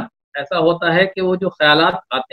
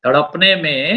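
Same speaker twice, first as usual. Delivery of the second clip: romantic shayari. Acted. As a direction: draw out each line of the couplet. Poet recites a love couplet.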